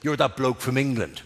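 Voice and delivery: mild Dublin taxi driver. Retold or imitated. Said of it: "looks at me and goes".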